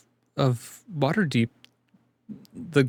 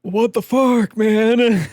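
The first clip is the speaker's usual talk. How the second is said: higher, louder outburst of disbelief; 10 semitones higher, 6 dB louder, much slower than usual. Real, not acted. Player reacting to the stoned NPC, loud disbelief. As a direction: throw it out loud, half laughing.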